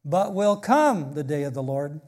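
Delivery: WILL COME hit firmly, the rest easing off; emphatic fronted verb. Shown as a demonstration. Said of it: "this is how it reads".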